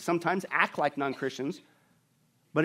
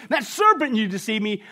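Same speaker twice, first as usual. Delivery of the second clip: a hammed-up Adam accusing; Adam blaming; 3 semitones higher, 4 dB louder than usual. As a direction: spit out the blame, pitched up. Adam blaming God, acted.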